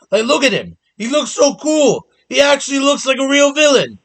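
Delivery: high, excited gushing. Real, not acted. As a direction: gush with real delight. Excited defence of a character.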